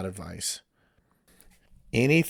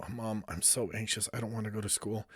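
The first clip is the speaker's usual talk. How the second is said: put-on whiny anxious teen; 13 dB quieter than usual. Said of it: "a teenager will wake up and go".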